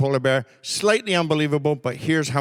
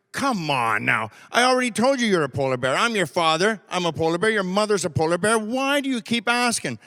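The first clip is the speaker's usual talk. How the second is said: rising impatience, climbing higher toward the final question; a father losing patience, question pitched up; exasperated dad; 4 semitones higher than usual. Retold or imitated. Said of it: "And the dad goes".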